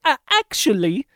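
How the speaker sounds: smug Steve Martin. Retold or imitated. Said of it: "Steve Martin's like".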